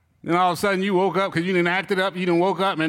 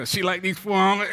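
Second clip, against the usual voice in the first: excited. Pretend. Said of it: "I'm getting too excited".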